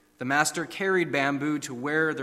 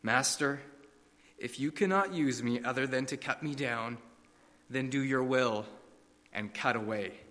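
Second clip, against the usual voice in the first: soft, fading, resigned; quiet surrender; 3 semitones lower, 6 dB quieter than usual. Acted. Bamboo yields to the master, soft and resigned. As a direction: give in barely above a breath. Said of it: "There was a whisper".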